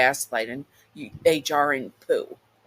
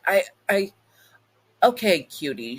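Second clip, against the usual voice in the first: flirty demon; 5 semitones higher, 5 dB louder than usual. Acted. Demon Velvet speaking.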